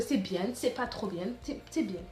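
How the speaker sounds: put-on playful, muddled Russian-ish accent, slowing down; lightly put-on mixed Russian accent. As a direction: slip into a jokey half-Russian accent. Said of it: "je sais même pas quel accent je fais, je crois que je mélange un russe".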